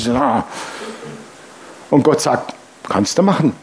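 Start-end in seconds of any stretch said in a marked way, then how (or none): 2.9-3.5 half cynical. Retold or imitated. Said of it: "So halb zynisch".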